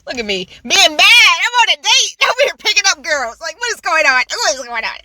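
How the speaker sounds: loud laughing disbelief. Real, not acted.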